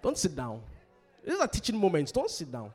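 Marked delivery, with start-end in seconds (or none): 0.0-0.6 loud, higher shouted warning. Real, not acted. Preacher shouts at the congregation not to sit down.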